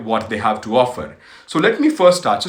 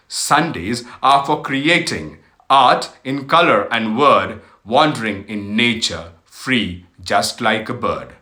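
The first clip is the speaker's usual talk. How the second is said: slow, measured poetry reading with lilting emphasis; poem recital. Acted. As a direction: recite it line by line, lingering on phrase ends. Reads a poem aloud. (read aloud as a poem, unhurried)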